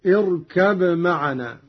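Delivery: اركب معنا said "irkab ma'ana", unmerged; izhar. Shown as a demonstration. Teacher citing the phrase under discussion, b of اركب kept separate. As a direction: clear b in اركب. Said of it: "الإظهار والإدغام في قوله".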